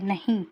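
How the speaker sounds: नहीं set apart on its own; pause after नहीं. Shown as a demonstration. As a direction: say नहीं and halt, as at a comma. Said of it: "यहाँ कुछ समय के लिए जैसे रुका है". (नहीं कहकर थोड़ा रुकें)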